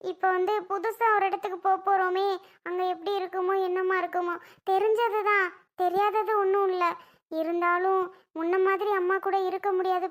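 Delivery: mildly weepy, anxious confiding; acted crying, held in; tearful. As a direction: explain your worry through tears. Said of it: "அப்புறம் ஏன் அமுதா நீ இப்படி அழுகுற?".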